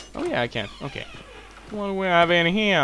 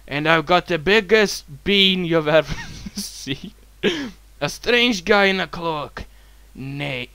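slow, deliberate storytelling read; slow narration, laughs slipping in; reading a letter aloud; slower than usual. Acted. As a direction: read out an odd letter with drawn-out words. Reads a found letter aloud.

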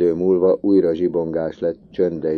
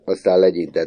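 ordinary delivery, nothing marked

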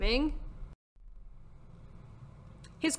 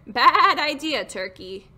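crowing rooster; 3 semitones higher, 8 dB louder, slower than usual. Acted. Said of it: "crowed Rooster".

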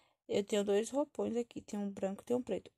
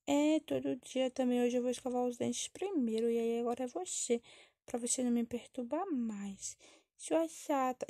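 a hint of a sulky kid; lightly voiced bickering child; 3 semitones higher than usual. Child squabbles with sister over brushing teeth first, lightly sulky.

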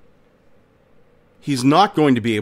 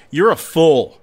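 a raised, higher jeering call; mocking shout; 5 semitones higher than usual. A narrator's reading. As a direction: taunt him across the river. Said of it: "And the man shouts out".

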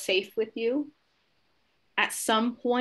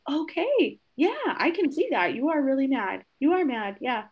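higher, gently agreeing, calming tone; soothing teacher; 5 semitones higher than usual. Retold or imitated. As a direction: settle an upset kid by agreeing with him. Teacher reassures the angry child.

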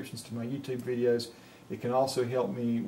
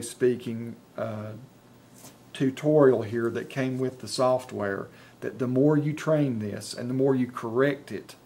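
dictating to software. Shown as a demonstration. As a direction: spell it out clearly for the machine, saying each period. Dictates text to software aloud.

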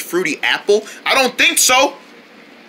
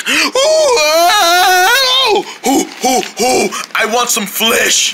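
hungry monster voice; 9 semitones higher, much slower than usual. Acted. Creature wants flesh.

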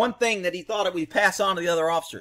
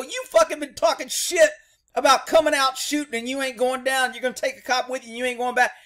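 high, raised-voice taunting rant; retold heated scolding; 8 semitones higher, 4 dB louder than usual. Cop berating suspect who talked of shooting, heated. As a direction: imitate chewing him out.

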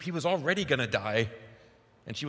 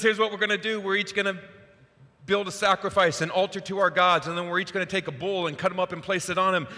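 bold challenge; 5 semitones higher than usual. Retold or imitated. Elijah sets showdown terms.

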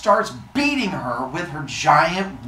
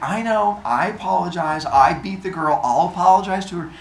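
hurried, raised-pitch apology; Athena; 4 semitones higher, 4 dB louder than usual. Acted. Athena apologizing to a pointing crowd, higher and impatient. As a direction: brush them off with quick admissions. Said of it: "She's like".

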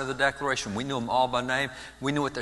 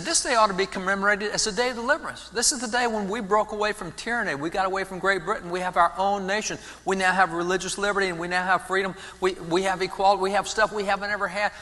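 fervent proclamation; 6 semitones higher than usual. Retold or imitated. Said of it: "He said".

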